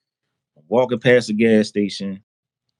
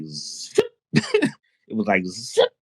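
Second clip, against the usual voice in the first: quick zipping noise; imitated zip; slower than usual. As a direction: imitate something whooshing past fast. Imitates the speed of the download.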